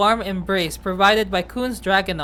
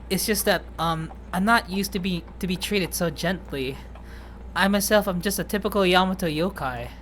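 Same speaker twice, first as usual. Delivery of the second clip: lightly voiced bashful character, growing quieter; understated shy admission; shy Fu, softening; 4 dB quieter than usual. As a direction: confess it modestly, trailing softer.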